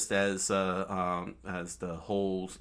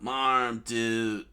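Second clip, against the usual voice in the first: higher and louder panicked cry; a hammed-up frightened yell; mock scream; 3 semitones higher, 4 dB louder, slower than usual. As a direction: yell about the arm in cartoon alarm. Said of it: "Luffy screamed out".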